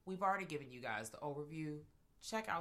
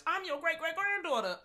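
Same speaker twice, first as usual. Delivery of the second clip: mock dramatic line; 11 semitones higher, 6 dB louder than usual. Mocking the movie's line.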